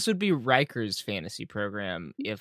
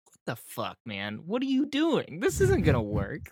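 mock Garak outburst; 5 semitones higher than usual. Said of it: "it's like".

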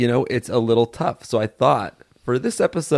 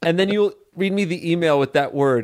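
pitched-up, grating character voice; a deliberately grating game-host voice; annoying Game Boy voice; 5 semitones higher than usual. Pretend. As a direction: explain the rules in an irritating host voice. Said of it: "That voice is, scratching my brain".

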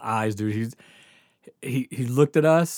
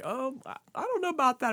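high, fretting lady voice; mock-prissy counselor doubting the kids; doubtful counselor; 12 semitones higher, 4 dB quieter than usual. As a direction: play the hesitant school counselor.

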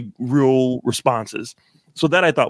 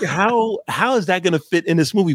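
puzzled question; 6 semitones higher than usual. Retold or imitated. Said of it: "I'm like".

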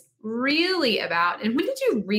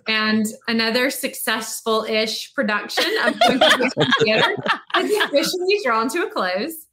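laughing wrap-up; 3 semitones higher, 5 dB louder than usual. Real, not acted. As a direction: wrap up the show while laughing. Host laughs while wrapping up.

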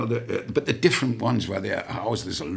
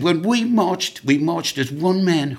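higher, louder, slow and proud; proud guardsman; 9 semitones higher, 7 dB louder, slower than usual. Retold or imitated. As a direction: boast slowly like a swaggering guardsman. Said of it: "He said".

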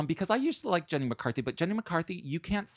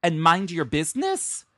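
mock angry quote; 6 dB louder than usual. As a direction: spit it out like she did, slowed and loud. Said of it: "She says".

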